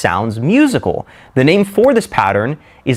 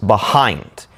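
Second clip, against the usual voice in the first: behind with the weight on HIND; stress on second syllable; 3 semitones lower than usual. Shown as a demonstration. Teacher showing where force falls, be-HIND stressed. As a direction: lean on the second half of "behind". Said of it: "the second half is said with more emphasis".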